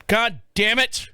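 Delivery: high, drawn-out mock cursing; exasperated outburst, not full volume; retold exasperation. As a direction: act out fed-up swearing. Retells exasperation after chasing dog.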